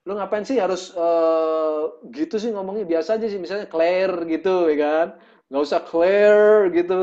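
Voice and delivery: slow, drawn-out mocking of a fancy accent; mocking jeer. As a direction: tease him for showing off his accent. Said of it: "mereka ngejek". (ejekan pelan, meledek aksen sok bule)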